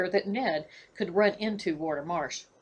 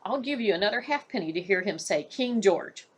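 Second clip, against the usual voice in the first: demanding. Acted. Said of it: "Warder Thomas demanded".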